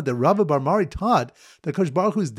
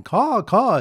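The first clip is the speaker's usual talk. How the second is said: imitated caws, pitched up; mock bird cawing, higher than talk; weeping bird call; 7 semitones higher, 4 dB louder than usual. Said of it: "weeping and going".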